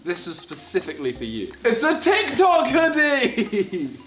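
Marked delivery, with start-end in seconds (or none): 1.6-4.0 laughing reveal. Real, not acted. Gleeful reveal of a gift.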